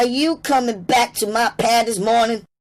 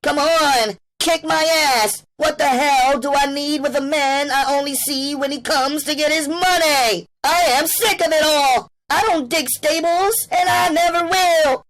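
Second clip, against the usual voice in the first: much higher, loud defiant outburst; spat out; 5 dB louder than usual. A narrator's reading. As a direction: dare the pimp to hit her. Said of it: "she spat out her invitation".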